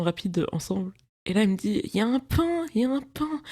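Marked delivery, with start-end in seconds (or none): 1.8-3.4 imitating half-whisper. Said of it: "Et elle chuchote à moitié".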